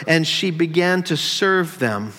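slow, leaning on "serve"; stress on serve. Shown as a demonstration. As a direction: draw out the word "serve" as a decoy. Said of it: "I emphasized that word".

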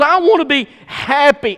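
lightly voiced whiny sinner; a hint of a spoiled man wanting happiness; mock sinner whine. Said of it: "He says".

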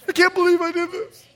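high, quick, hammed-up disbelief; mock aghast. Congregant confessing to the pastor, mock aghast. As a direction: squeal it in pretend horror.

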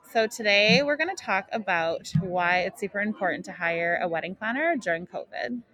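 muffled through a mask; through a face mask. Real, not acted. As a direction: talk through a cloth mask. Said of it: "I'm wearing a mask right now".

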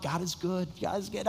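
smiling. Retold or imitated. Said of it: "they're just smiling like".

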